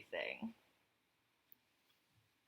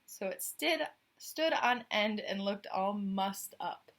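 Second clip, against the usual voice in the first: clear, louder storybook reading; story narration; 4 dB louder than usual. A narrator's reading. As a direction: read the tale out to the listener. Reads the picture book aloud.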